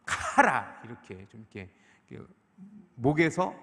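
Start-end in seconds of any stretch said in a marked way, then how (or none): 0.1-0.8 카라 with a hard, bursting k from the throat; forceful pronunciation. Shown as a demonstration. Preacher showing a Hebrew word, 카라 forcefully pronounced. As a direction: punch out 카라, its first sound exploding from the throat. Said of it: "세게 발음하면".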